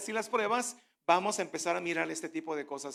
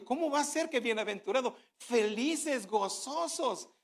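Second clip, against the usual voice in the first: puzzled disbelief; 5 semitones higher than usual. Retold or imitated. Preacher recalls his baffled reaction to the verse. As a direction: act out being baffled by the verse. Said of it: "Yo cuando leí eso dije".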